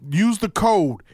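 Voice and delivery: slow, spaced-out ad read; sponsor plug. Acted. Host sending listeners for a free health pack, slow ad read. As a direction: deliver the promo phrase by phrase, with pauses.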